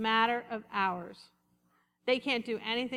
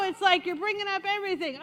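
normal talking voice

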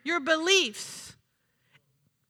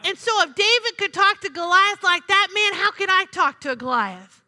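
ordinary talk, nothing marked

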